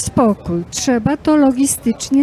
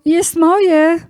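squabbling; 3 semitones higher, 4 dB louder than usual. Acted. Gods fighting over apple.

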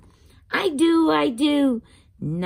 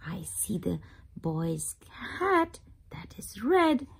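whisper; 5 dB quieter than usual. Acted. Whispered aside while reading.

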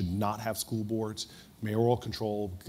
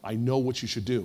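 slow, drawn-out awe of a retold revelation; imitating a woman struck by revelation; suddenly inspired; 2 semitones higher, slower than usual. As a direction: act out a sudden divine inspiration, stretching the exclamation. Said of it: "looked like she was animated by God".

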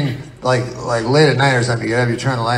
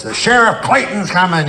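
announcer voice; 5 semitones higher than usual. Retold or imitated. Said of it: "a guy in the voice".

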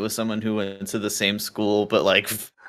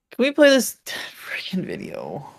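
whisper; 12 semitones higher, slower than usual. Real, not acted. Hushed impatient aside.

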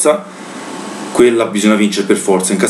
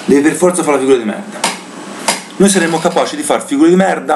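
exasperated rant, pitch raised high; disbelieving fan venting in anger; explosive italian cursing; 4 semitones higher than usual. Real, not acted. Exasperated rant about humiliation.

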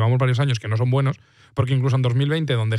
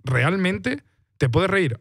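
slow, drawn-out question pitched higher, doubting "reír"; incredulous question; 5 semitones higher, much slower than usual. Retold or imitated. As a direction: stretch it out in disbelief, as if "reír" is unthinkable. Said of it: "la lectura que puedes hacer es".

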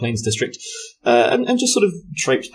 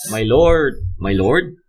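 Somerset accent attempt; slower than usual. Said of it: "give him your best Somerset accent".

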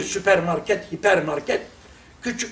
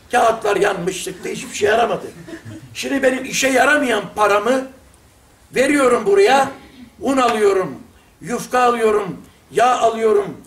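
mock shouted praise. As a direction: shout your thanks across the market like a street preacher. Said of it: "bağırarak konuşuyorum ya".

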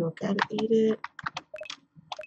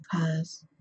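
soft unvoiced whisper; library whisper; 3 semitones lower, 4 dB quieter than usual. Real, not acted. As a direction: whisper so nobody wakes. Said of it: "I'm, like, literally whispering".

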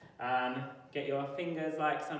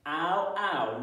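shouted sound; 4 semitones higher, 6 dB louder than usual. Shown as a demonstration. Phonics chant, shouted sound.

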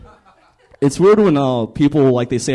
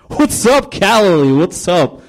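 Jesus; 2 semitones higher, slower than usual. Acted. Jesus warming up the crowd like comedians do, hammed-up. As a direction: work the crowd, then drag out the punchlines. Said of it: "Jesus is like".

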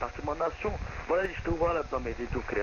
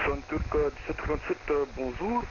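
voice changer. Acted. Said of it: "ça sert à rien d'utiliser un modificateur de voix".

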